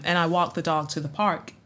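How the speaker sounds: low, soft standard American read; standard American accent. Shown as a demonstration. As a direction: audition line in General American. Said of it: "do a standard American accent".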